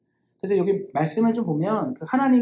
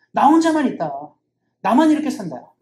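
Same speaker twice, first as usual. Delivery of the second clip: aggrieved outcry; 3 semitones higher, 5 dB louder than usual. Acted. Elijah crying out to God that he is alone: loud aggrieved outcry. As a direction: protest like the only faithful one left. Elijah's self-pitying cry.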